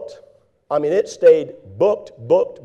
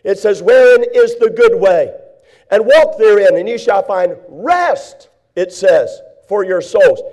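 slow, deliberate scripture read; measured preacher reading the old paths; 4 dB louder, slower than usual. Acted. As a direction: read the verse with weight.

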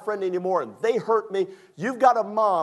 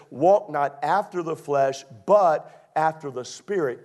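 scripture reading; slower than usual. Real, not acted.

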